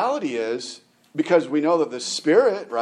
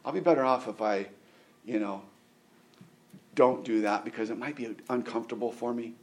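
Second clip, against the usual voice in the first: softer, hedging excuses; reluctant flesh; 5 dB quieter than usual. Acted. Preacher voicing the flesh resisting the spirit, hesitant and soft. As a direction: play the flesh quietly making excuses. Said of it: "My flesh is saying".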